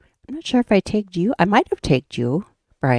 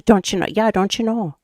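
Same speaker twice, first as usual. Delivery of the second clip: put-on Minnesota accent; 3 semitones higher than usual. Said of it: "Up here in Minnesota".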